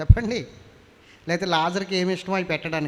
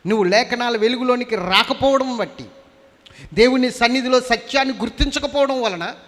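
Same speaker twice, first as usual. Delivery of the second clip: higher, louder impassioned sermon; full force preaching; 6 semitones higher, 4 dB louder than usual. Acted. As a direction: preach it out to the congregation.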